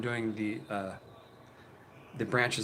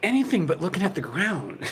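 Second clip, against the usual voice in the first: exasperated; 8 semitones higher, 7 dB louder than usual. Real, not acted. Mocking a vlogger's odd shots.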